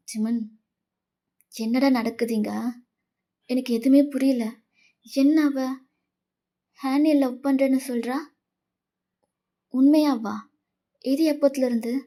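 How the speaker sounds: confused, disbelieving questions; bewildered friend. Acted. Friend asking Jimin about his secret love, stunned and confused. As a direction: press for answers in growing disbelief.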